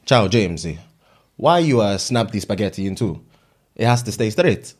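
mock Italian accent.

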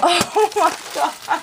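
high, slow, breaking exclamation; real high-pitched astonishment; overwhelmed amazement. Real, not acted. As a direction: let it go high in disbelief. Overwhelmed on unwrapping the gift.

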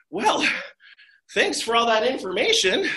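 put-on high, bright, laughing boy; cheerful Jack. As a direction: chirp it back happily. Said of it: "Jack was like".

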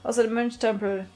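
a lightly voiced fussy archaeologist; chatty archaeologist. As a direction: pitch it like a nosy treasure hunter. Reads archaeologist NPC lines.

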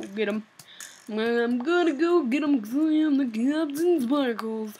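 a lightly put-on cartoon hero voice; hint of a mock superhero voice; Captain Sparkles impression. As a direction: puff up like a self-important hero. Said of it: "that's my voice impression".

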